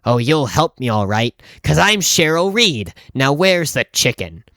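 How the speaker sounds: imitating a demanding customer, mildly pushy; lightly voiced deadpan lady. Customer demanding help from the clerk, deadpan. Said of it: "completely deadpan, and she just says".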